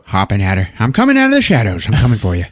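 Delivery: a playful hint of a creature on the prowl; giant toad. Giant toad creeping out at her, mock menace. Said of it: "a big-ass giant toad just starts like".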